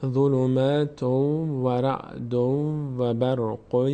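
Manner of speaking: slow, drawn-out Quranic recitation. Shown as a demonstration. Tutor reciting the verse slowly for students. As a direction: chant each syllable slowly, stretching the vowels. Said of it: "اینو از اول یه بار دیگه بخونیم".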